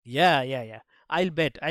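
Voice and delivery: low, slow, scoffing; sarcastic sister. Acted. Sister mocking brother's claim. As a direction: drag out a disbelieving "I'll bet".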